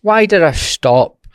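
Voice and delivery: high, loud, slow chapter-title announcement; dramatic title read. Shown as a demonstration. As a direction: announce the question like the start of a new chapter. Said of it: "so before we get into the episode".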